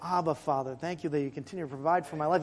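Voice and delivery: quiet prayer. Shown as a demonstration. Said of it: "but at least an acknowledgement".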